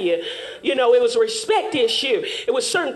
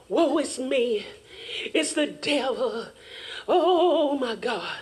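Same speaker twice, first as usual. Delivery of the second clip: playing dumb; 6 dB quieter, slower than usual. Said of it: "playing dumb games".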